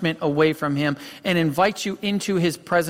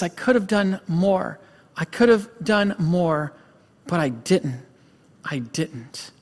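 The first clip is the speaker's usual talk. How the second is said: distraught breakdown; 2 semitones higher than usual. Retold or imitated. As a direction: imitate a broken man running out of strength. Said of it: "he breaks down and he's crying".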